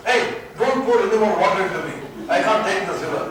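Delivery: loud, fed-up protest; the ocean moaning that it is too full; restless ocean complaining. Acted.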